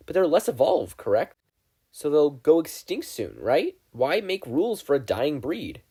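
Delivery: lightly voiced smug student; a hint of self-satisfied reasoning; proud schoolgirl. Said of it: "almost proud of herself".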